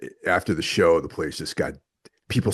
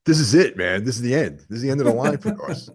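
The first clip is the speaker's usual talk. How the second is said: mock panic; 6 semitones higher, 3 dB louder, faster than usual. Locked in bomb shelter, mock doom.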